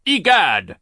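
high, loud shocked cry; Mister Poe seeing Olaf escape; alarmed exclamation. Acted. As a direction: blurt it out in alarm.

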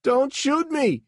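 high, loud, slow frightened plea; a panicked high cry. A narrator's reading. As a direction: beg not to be shot. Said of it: "he cried".

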